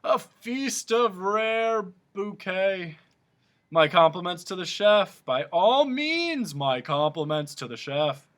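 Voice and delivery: high, slow and grand; hammed-up pompous compliments; pompous humbug. A narrator's reading. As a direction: toast the chef like a puffed-up bug. Humbug character voice.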